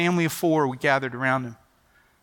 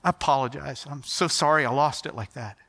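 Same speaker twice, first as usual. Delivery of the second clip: choked up; 3 semitones lower than usual. Retold or imitated. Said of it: "trying to get his composure".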